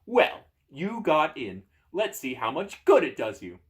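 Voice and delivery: slow, loud smug taunt; smugly drawn-out door voice. Acted. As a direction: gloat over an empty win. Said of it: "the door says smugly".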